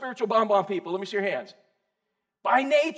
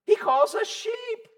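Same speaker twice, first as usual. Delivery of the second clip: emphatic; 10 semitones higher, much slower than usual. Real, not acted. Preacher emphatic point.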